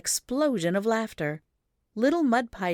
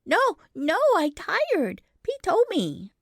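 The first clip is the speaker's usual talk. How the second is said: put-on small boy's firm, louder insistence; firmly; 13 semitones higher, 5 dB louder than usual. A narrator's reading. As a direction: plant your feet and refuse. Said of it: "he said so firmly".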